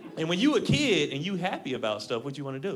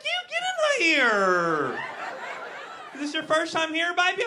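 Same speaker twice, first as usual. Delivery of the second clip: much higher, sweet Southern waitress voice; 12 semitones higher, 3 dB louder, slower than usual. Retold or imitated. Southern waitress welcoming a customer, high sweet drawl. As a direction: coo it like a syrupy diner waitress. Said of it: "She's like".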